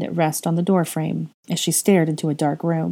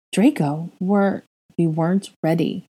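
dazed repeating; slower than usual. Acted. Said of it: "he repeated".

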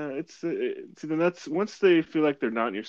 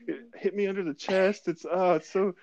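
evasive answer; 8 semitones higher than usual. Retold or imitated. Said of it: "I'm like".

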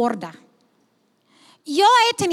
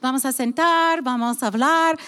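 calm invitation. Retold or imitated. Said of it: "completamente calmada".

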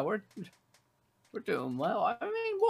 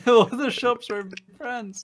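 laughing mock repeat; 6 semitones higher, 6 dB louder, slower than usual. Real, not acted. Teasing repeat of friend's slip.

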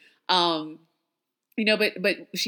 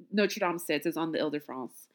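French accent; 2 semitones lower, 4 dB quieter than usual. Shown as a demonstration. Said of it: "was that bougie? Should I not do the accent?".

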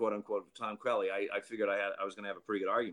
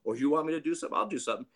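defiant manager; 6 semitones higher, much faster than usual. Retold or imitated. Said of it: "He goes".

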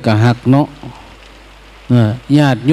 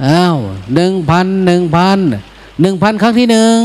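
high calling auction bid; auctioneer; 4 semitones higher than usual. Retold or imitated. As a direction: call out the bids like an auctioneer. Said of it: "ตามหลักการประมูล".

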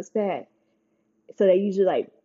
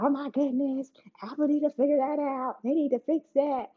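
shocked reaction; 7 semitones higher than usual. Retold or imitated. Vlogger recounts her reaction to phones unlocking with eyes closed, shocked. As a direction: replay your shock in a raised voice. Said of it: "I was so shocked".

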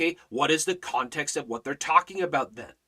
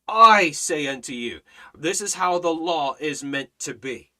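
emphatic divine pronouncement, each opening I hit hard; absolute authority; 4 dB louder than usual. Acted. Preacher voices God laying down gospel and law, authoritatively. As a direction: declare it as only God could. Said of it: "vocabulary of absolute authority".

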